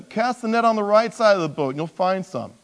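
calling out. Acted. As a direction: call the instruction out to a boat.

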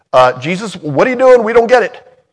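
high, loud baffled disciple; puzzled Peter. Pretend. Peter to Jesus at the footwashing, high confused blurt.

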